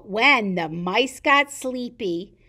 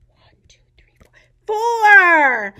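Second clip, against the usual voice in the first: loud, high count; counting aloud; 9 semitones higher, 11 dB louder than usual. Acted. Teacher calling the count to children, loud and high. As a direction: call out the number to the kids.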